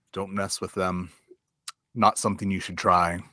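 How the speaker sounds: understated, slightly low knight voice; weary knight. Acted. Giant knight warns small folk off cockatrices, wearily. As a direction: warn them off with little effort. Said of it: "sighs but doesn't answer you directly".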